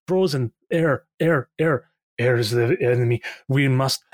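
lightly acted delirious dwarf, rambling; incoherent muttering. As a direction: ramble in broken, repeating fragments. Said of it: "you just hear him muttering incoherently".

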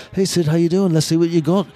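a casual, upbeat hello to a young fan, lightly imitated; Paul's cheery greeting. Paul greets photographer, voiced.

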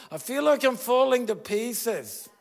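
a voiced friend cries out falling apart; anguished cry. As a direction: let it break out of you. Voicing a person's despair.

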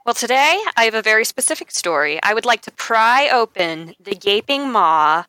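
mildly theatrical announcement; a touch of showy drama, pausing before the title; dramatic reveal. Pretend. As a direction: build up to the big reveal. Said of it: "I wanna do the dramatic reveal".

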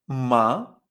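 "ma" starting low and sweeping upward; second tone. Shown as a demonstration. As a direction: glide up through "ma" as if questioning. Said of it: "Es como si dudaras".

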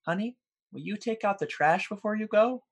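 calm wife. Retold or imitated. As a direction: sweetly ask the husband a small favour. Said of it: "his wife calmly asks him".

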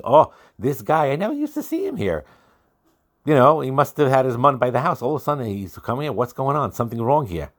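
gossiping neighbours, pitch jumping up on never; a nosy onlooker whispering suspicion about the man, lightly voiced; nosy townsfolk. Gossiping townspeople at mun collection.

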